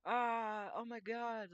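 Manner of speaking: high, loud yelp of mock panic; anxious panic. Artist acting out commission anxiety, mock panicked yelp. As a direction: squeal like the worry just hit you. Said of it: "It's that anxiety of".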